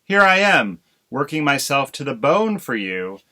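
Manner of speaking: burst out. Acted. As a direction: pour out the grievance at the husband. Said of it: "Missus Crow burst out".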